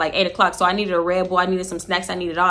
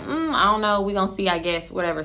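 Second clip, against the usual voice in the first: sulky shrug; 5 dB quieter than usual. Retold or imitated. Friend after the drug test, softly sulking. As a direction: brush off the question, sulking.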